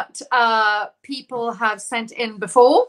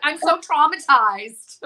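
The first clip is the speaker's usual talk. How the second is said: slow, hammed-up dramatic sigh; drawn out like a melodramatic teen; mock traumatized; 4 semitones higher, slower than usual. Host imitating a dramatic fan girl, mock despair. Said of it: "one girl was like".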